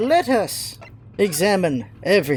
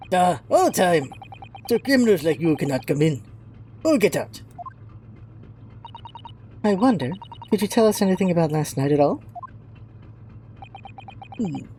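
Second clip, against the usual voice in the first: put-on lightly done Russian accent, gruff sailor; a proud, touchy Russian seaman. Sailor Stroganoff scolding the visitors, light Russian accent.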